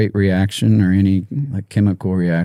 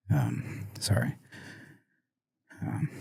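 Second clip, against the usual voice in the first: choked up; 4 semitones lower, 14 dB quieter, slower than usual. Real, not acted. Choking up over dad's death.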